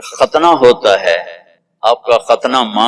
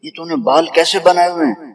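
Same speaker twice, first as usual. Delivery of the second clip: mock scolding; 6 semitones higher, faster than usual. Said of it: "میں کہا".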